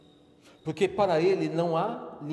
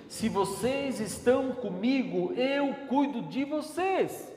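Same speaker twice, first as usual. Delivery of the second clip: higher, slow, tender promise; Jesus reassuring; 8 semitones higher, slower than usual. Acted. Preacher voices Jesus comforting the frightened disciples, tenderly. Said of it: "ele tá dizendo o seguinte".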